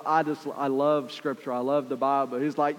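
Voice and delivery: ordinary talk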